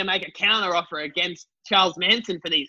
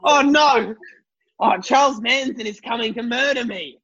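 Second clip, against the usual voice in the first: mock fear; 2 semitones higher than usual. Victim acts terror at approaching killer.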